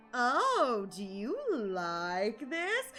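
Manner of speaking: slow, drawn-out coy teasing question. Retold or imitated. Acting the flirty character to chat, slowly teasing. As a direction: tease them, stretching the last word. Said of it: "the teasing tone".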